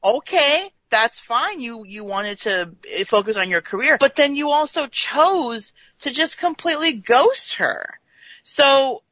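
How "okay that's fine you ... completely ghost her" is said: emphatic telling-off, leaning on key words; indignant scolding. Acted. Fan telling Riker he chose career over her, indignant. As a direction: lay out the blame point by point.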